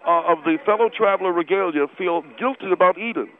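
indignant with a mouthful; protesting through a mouth full of food. Acted. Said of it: "your mouth is full of food".

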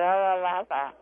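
mock drowning-out chant; mimicked ear-blocking "la la". Mocking the host for blocking her ears, mimicked la-la chant. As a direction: mimic someone refusing to listen. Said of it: "put your hands over your ears and went".

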